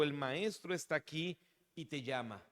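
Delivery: lightly hushed, as if passing on a secret. A narrator's reading. Marta tells her sister María in secret, softly confidential. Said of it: "diciéndole en secreto".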